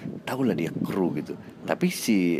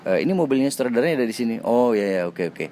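quick, raised-voice question and reply; rather loud talk; 4 semitones higher, 4 dB louder than usual. Retold or imitated. Chatting with parking attendant about director's car, rather loud. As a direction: speak up, brisk and fairly loud. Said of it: "itu agak keras pembicaraannya".

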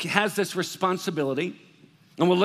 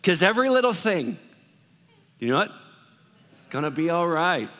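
read like a white guy. Shown as a demonstration. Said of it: "I'm gonna read it like a, a white guy".

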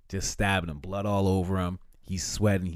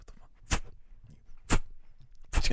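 voiceless shocked disbelief, spaced out; stunned whisper; slower than usual. Retold or imitated. The victim sees the killer, whispered shock. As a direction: breathe it out in disbelief.

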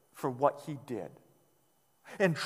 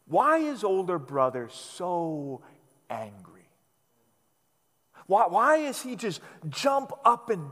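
slow rhetorical question. Shown as a demonstration. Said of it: "slow rhetorical question".

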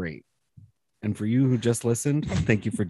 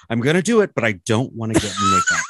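mock whining protest; 5 dB louder than usual. Mimics drag queen's reluctant text message.

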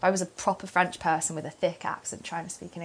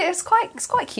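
mock Scouse lilt; 11 semitones higher, 3 dB louder than usual. Shown as a demonstration. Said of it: "Scouse accent strike you".

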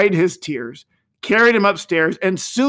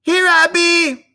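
put-on much higher, louder, slow little-boy pipe; thin piping child; 12 semitones higher, 6 dB louder, slower than usual. A narrator's reading. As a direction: pipe up from a hiding place. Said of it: "a thin voice piped up from below".

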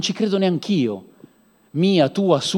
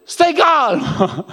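mock slow soothing; 7 semitones higher, much slower than usual. Mock calming again.

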